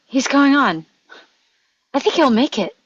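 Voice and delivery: very loud, high running report; excited shouting. Acted. Boy reporting the knight's progress to the gnome, excited shout. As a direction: shout out what you see.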